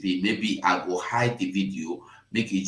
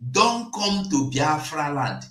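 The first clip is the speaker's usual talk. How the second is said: 1 shouted warning; 6 semitones higher than usual. Real, not acted.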